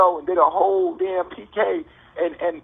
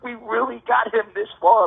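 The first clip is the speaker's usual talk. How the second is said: gleeful mock cheer, higher; mocking excitement; 4 semitones higher than usual. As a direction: imitate people gloating over a win.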